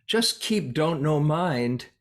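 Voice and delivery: a light, slow imitation of a Korean teacher's accent. Teacher quoting his Korean master, slow, light Korean accent. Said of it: "his thick Korean accent is so endearing".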